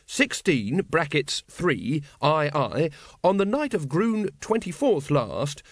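formal constable cautioning the accused; earnest officer reading charges. Acted. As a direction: solemnly recite the charge sheet in full legalese. Carrot goes on reading the charges.

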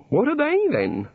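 high, bright-eyed tinkerer god; eager god voice. A narrator's reading. The god speaks.

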